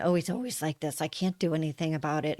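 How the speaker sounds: quiet, mildly resigned complaint. Acted. Woman voicing the story we tell ourselves about him, mildly resigned. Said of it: "of either anger or resignation".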